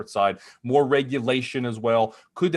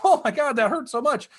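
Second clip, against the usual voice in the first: high, louder pained yelp; mock yell of pain; 12 semitones higher, 3 dB louder than usual. Movie guy burning his fingers on the candle, yelling. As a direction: ham up a burnt-finger cry. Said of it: "He screams and yells".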